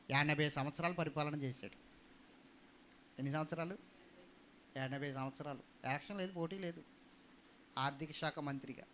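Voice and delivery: ordinary talk, nothing marked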